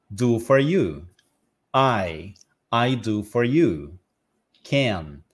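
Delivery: slow, word by word from the end; slow pronunciation drill; backward buildup drill. Shown as a demonstration. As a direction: build the phrase backwards, pausing between bits. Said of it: "começa a praticar de trás pra frente".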